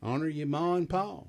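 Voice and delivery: a light hillbilly twang, barely put on. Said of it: "in my best hillbilly voice".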